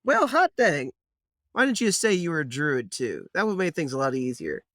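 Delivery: put-on a twangy old gnome tickled pink; folksy gnome. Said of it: "And he goes".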